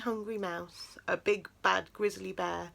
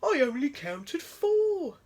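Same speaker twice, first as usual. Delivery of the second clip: puzzled; 7 semitones higher, 6 dB louder than usual. A narrator's reading.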